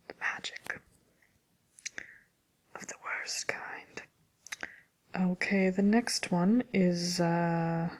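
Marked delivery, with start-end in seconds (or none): 0.1-4.0 whispered grumble, very soft; muttered grumble. Acted. Witch to herself about a beeping contraption, muttering. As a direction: grumble it under your breath.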